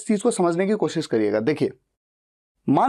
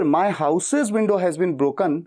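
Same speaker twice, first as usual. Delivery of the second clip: slow, careful teacher read; slow model sentence; much slower than usual. Shown as a demonstration. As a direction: spell it out slowly for learners. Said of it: "इस sentence को बोलने का तरीका".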